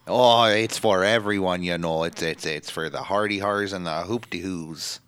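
hammed-up, badly faked Irish accent; bad mock-Irish impersonation; terrible Becky Lynch. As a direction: attempt an Irish accent and botch it. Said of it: "a very terrible Becky Lynch impersonation".

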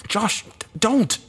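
high, alarmed cry; broken-off shout of alarm; panicked plea. A narrator's reading. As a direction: cry out to stop him. Crying out to stop a suicide.

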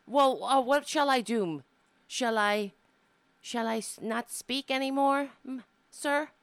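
fake-humble retort to a rude critic; sarcastic mock meekness.

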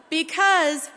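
laughing out the word. Real, not acted. Preacher laughs at her daughter's scream, laughing. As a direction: break into a laugh as you start. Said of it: "laughing after the story".

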